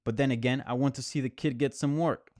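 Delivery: light put-on New York accent; quoting a coach in a New York accent. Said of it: "That, that was my fake, uh, New York accent".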